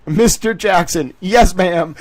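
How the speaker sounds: words breaking into giggles; laughing through reading. Real, not acted. Reading the judge's scolding while laughing. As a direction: read it while cracking up.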